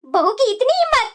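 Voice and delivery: mildly tearful, indignant lament; tearful complaint. Acted. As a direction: complain to your husband through put-on tears. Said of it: "तुम क्यों रो रही है".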